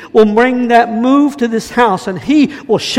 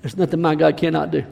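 quiet declaration; 3 semitones lower, 5 dB quieter than usual. Acted. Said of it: "repeated, building".

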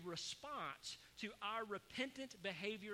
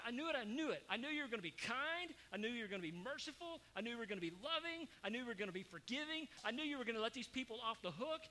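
agitated Jonah; 3 semitones higher than usual. Acted. Preacher voices agitated Jonah.

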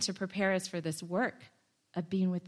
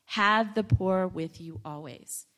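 "Have" stressed up front, slow and deliberate; read as a command; slower than usual. Shown as a demonstration. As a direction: lean on "Have" as an instruction, then measured words. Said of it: "but as a command".

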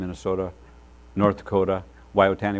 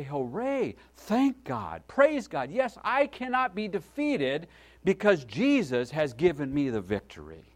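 building higher and louder to a shout of praise; rising joyful praise; 4 semitones higher, 4 dB louder, slower than usual. Retold or imitated. Believers crying out in victory, growing louder and higher. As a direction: lift it up with growing joy.

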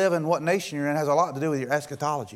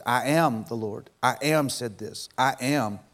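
weight on "I am", slower; stress on I AM; 3 semitones lower than usual. Retold or imitated. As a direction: lean on "I am" each time it comes. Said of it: "she emphasized".

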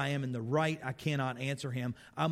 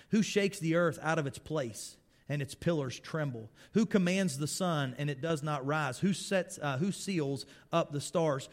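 raised, declaiming scripture voice; scripture reading; 2 semitones higher than usual. Acted. Preacher reading Job's reply to his friends, declaiming. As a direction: read it out like a preacher proclaiming.

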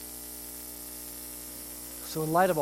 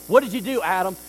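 stern God; 6 dB louder, faster than usual. Retold or imitated. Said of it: "God going".

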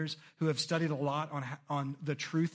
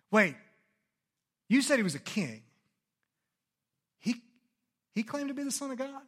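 nervous Pilate; 8 semitones higher, 3 dB louder than usual. Acted. Pilate voiced, getting nervous.

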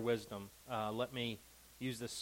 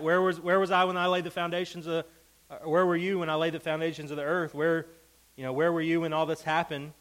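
higher, louder mocking questions; God's sarcasm paraphrased, high and loud; sarcastic God; 4 semitones higher, 5 dB louder than usual. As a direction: rattle off the taunts. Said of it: "It's a sarcasm".

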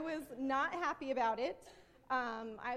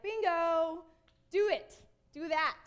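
loud, higher, punchy exclamations; delighted approval; 4 semitones higher, 7 dB louder, slower than usual. Acted. Jesus approving the lawyer's answer, excited. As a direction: cheer the right answer on.

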